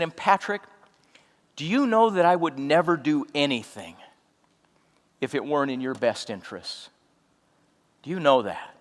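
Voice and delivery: soft and hushed, asking with love; tender question. Retold or imitated. To tearful friend Patrick, a hushed tender question. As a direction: let the love show quietly. Reassuring friend before evidence.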